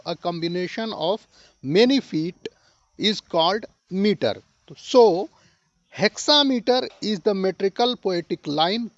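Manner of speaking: very slow, word by word, like dictating notes; slow classroom dictation voice. Shown as a demonstration. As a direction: spell the definition out slowly for students. Teacher dictating a definition.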